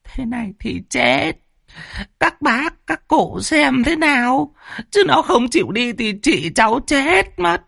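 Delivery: high, whining near-sob plea; whimpering. A narrator's reading. Bald man's wife pleads with the elders, high whimpering. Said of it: "Vợ lão hói mếu máo".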